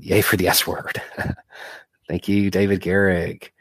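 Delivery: sick, congested voice; talking with a blocked nose; stuffy nose. Real, not acted. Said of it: "You sound a bit under the weather".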